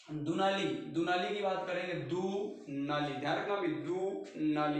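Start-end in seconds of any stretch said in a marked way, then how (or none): 1.9-3.1 दुनाली said slowly, syllable by syllable; दुनाली stretched out for the class; slow, clear pronunciation. Shown as a demonstration. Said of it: "दो नाली". 3.7-4.8 दुनाली said slowly, syllable by syllable; दुनाली stretched out for the class; slow, clear pronunciation. Shown as a demonstration. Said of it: "दो नाली".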